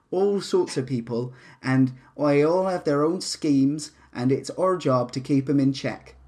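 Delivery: a hint of a tough city captain briefing recruits; lightly voiced captain. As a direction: talk to the new recruits like a weary boss.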